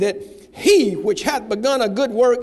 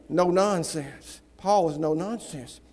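low, gruff; 8 semitones lower, 7 dB quieter, slower than usual. Acted. Low gruff aside about Paul.

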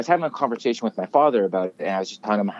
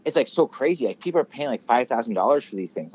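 imitating mom; 3 semitones higher, 3 dB louder than usual. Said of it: "my mom goes".

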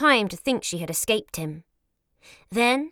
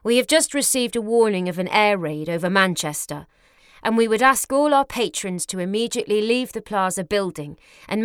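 calm formal announcement. Acted. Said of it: "a calm, formal voice".

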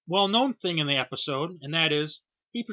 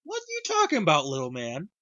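mocking Gordon. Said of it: "Gordon just looks at him and goes".

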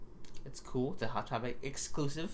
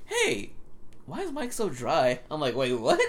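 little brother's voice, much higher; teen brother; 7 semitones higher, 3 dB louder, slower than usual. Retold or imitated. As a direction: mimic a curious kid brother, higher. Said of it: "today he's like".

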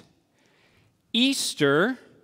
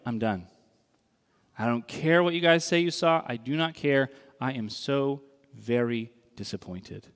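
fed-up Thomas; 6 semitones lower than usual. Retold or imitated. Thomas giving up on the others, sulky low grumble. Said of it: "And Thomas is like".

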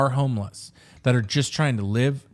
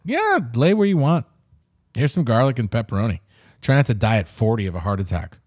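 lazy Italian. Retold or imitated. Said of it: "Our people are like this".

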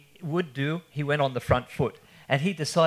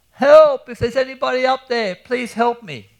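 calling for help; 10 semitones higher, 12 dB louder than usual. Acted. Trapped man in a sand pit shouting up for help, desperate high shout. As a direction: yell for rescue with everything you have. Ahmed stuck calling from hole.

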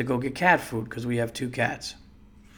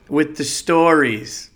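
slow, louder drawn-out film line; movie quote; 5 dB louder, slower than usual. Retold or imitated. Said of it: "Step Brothers".

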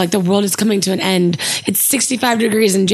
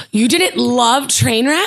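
surprised; 3 semitones higher, slower than usual. Real, not acted. Shocked friend disagrees.

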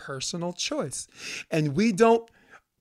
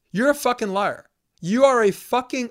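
angry outburst; 6 semitones higher, 4 dB louder than usual. Retold or imitated. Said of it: "And I'm like".

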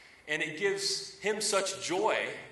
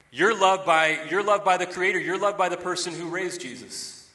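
loud, rising proclamation; fervent pulpit shout; preaching climax; 4 semitones higher, 6 dB louder than usual. Real, not acted. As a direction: build to a big shout of assurance. Preacher's climax on being loved.

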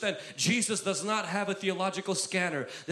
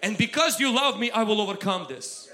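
confident faith; 3 semitones higher, 4 dB louder than usual. Pretend. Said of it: "faith will say".

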